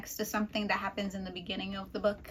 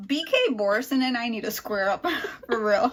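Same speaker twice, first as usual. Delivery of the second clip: laughing; 6 dB louder than usual. Real, not acted. Joking threat to author.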